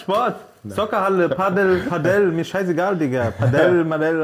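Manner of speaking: high-pitched, exasperated listing; getting sour. Real, not acted. Man corrected on a sport's name, openly annoyed. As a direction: rattle off words, fed up. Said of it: "der ist einfach sauer geworden".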